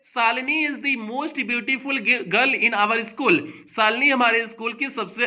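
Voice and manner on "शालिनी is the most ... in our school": very slowly, word by word; slow dictation. Shown as a demonstration. Teacher reading an example sentence to students, slow and deliberate. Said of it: "superlative degree का वाक्य है".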